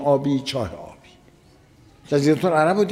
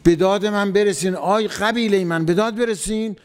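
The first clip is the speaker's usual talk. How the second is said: higher-pitched call for help, not really shouted; retold cry for help; 5 semitones higher than usual. One man calls his tribe to the rescue, mild retold cry. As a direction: mildly imitate someone crying out to their tribe. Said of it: "فقط یه نفر داد زد".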